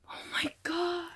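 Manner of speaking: high, soft breathless squeal; excited, freaking out. Real, not acted. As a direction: squeal under your breath, overwhelmed. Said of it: "I'm so excited".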